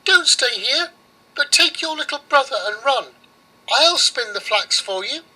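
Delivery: very high mouse warning. Acted. Mouse warns the girl about Baba Yaga, very high. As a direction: squeak the warning urgently. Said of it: "but the mouse said".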